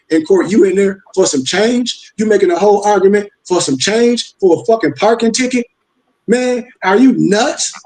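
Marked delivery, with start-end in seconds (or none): 3.4-7.7 incredulous. Real, not acted. Incredulous at people's court arguments.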